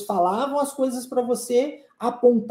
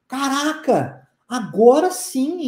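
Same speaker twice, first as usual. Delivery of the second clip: 1 mock relief; 3 semitones higher, 4 dB louder, slower than usual. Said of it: "a sua cabeça faz".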